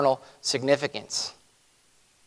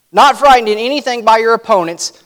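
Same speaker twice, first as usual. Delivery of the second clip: forceful reading; 5 semitones higher, 4 dB louder than usual. Acted. Preacher reads verse with force.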